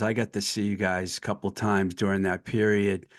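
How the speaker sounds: ordinary talk, nothing marked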